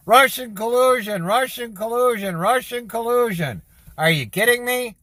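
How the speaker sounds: real worked-up rant, pitched well up; venting hot at the media, voice climbing; wound up. Real, not acted. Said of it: "Pisses me off".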